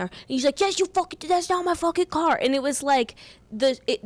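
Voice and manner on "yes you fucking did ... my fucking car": much higher, mock-indignant New York accent; New York screaming match. Woman retells other guy's retort, mock New York yelling. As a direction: argue back like an imitated New Yorker. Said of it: "they were screaming".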